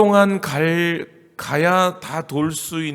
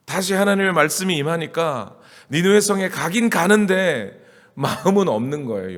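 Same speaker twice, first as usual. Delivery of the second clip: usual speaking voice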